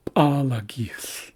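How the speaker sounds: p'alagith slowly, with a popped first P; ejective P. Shown as a demonstration. Teacher reads the next Haisla word, slow ejective P. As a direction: draw out "p'alagith" after a sharp ejective P. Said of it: "what we call, uh, ejective Ps".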